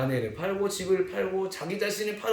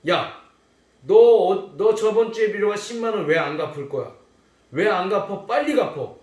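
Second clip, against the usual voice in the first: louder, angry collar-grab demand; bully him for the money; 멱살 잡고 화내며 다그치기; 2 semitones higher, 6 dB louder than usual. Acted. Servant grabs debtor by the neck.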